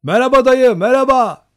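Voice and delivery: high, loud merry greeting; cheerful shout. A narrator's reading. Young Cossacks answering the old hunter, cheerful shout. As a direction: shout back a jolly hello. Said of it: "o şen sesleri karşılık verdi".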